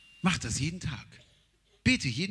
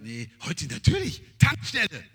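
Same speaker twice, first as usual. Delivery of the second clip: mock excited yes; 7 dB louder than usual. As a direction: announce the gas station gleefully. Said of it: "Früher hätte ich gesagt".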